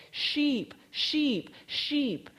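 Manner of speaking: high, ringing call to the flock. Retold or imitated. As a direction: sing out to sheep across the hill. Shepherdess calling her flock.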